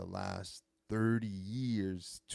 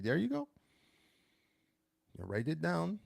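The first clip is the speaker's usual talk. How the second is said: high, bright praise to his daughter; dad praising his daughter's French, excited and high; encouraging dad; 9 semitones higher than usual. Retold or imitated. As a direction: cheer her on, pitched way up.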